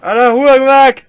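high, slow, shouted battle cry; mock battle cry. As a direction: yell it like a hammy war cry. Joke as creature explodes.

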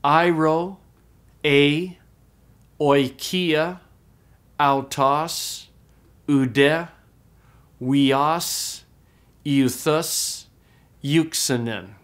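each Greek word said alone, slowly, with pauses; call and repeat drill. Shown as a demonstration. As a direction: lead the class through the word list. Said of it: "say it with me out loud".

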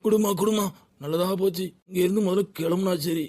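hurry, just take the cash and go; eager, relieved. Acted. Fish seller eager to grab his pay and leave.

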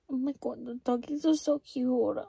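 lightly put-on cutesy baby talk. Vlogger mocking a girl's baby voice over the dogs. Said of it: "doing a baby voice".

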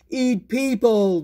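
loud, slow monster voice; deep muffled sea monster. Acted. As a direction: growl it like a hungry beast. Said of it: "roared the sea monster".

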